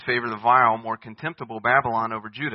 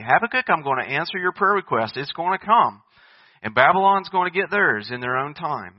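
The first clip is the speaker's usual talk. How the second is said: lightly voiced God, louder and higher; raised-voice divine reassurance; God answering; 4 semitones higher, 5 dB louder than usual. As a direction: give an emphatic promise as God. Voicing God's answer to the prophet.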